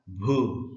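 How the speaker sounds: भू with a held oo; long vowel. Shown as a demonstration. Teacher sounds out a spelled syllable, long vowel. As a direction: draw out the vowel of भू. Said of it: "उच्चारण थोड़ा सा लंबा होता है".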